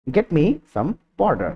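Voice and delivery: very slow, word by word, like a stiff translation; slow literal translation. Shown as a demonstration. Teacher showing a too literal translation, very slow. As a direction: spell out the clumsy version slowly. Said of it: "It sounds like literally translated sentence".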